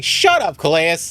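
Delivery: telling the ship's AI to shut up, annoyed; annoyed snap. Acted. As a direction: cut the nagging AI off. Snapping at the game's AI.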